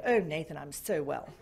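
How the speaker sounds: low, composed phone manner; radio voice. Retold or imitated. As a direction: keep the put-on radio voice, pitched well down. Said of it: "Put on my best radio voice ever".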